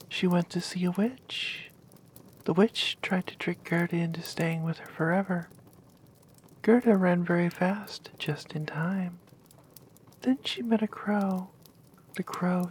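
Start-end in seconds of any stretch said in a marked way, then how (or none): 2.4-8.1 whispered story. Acted.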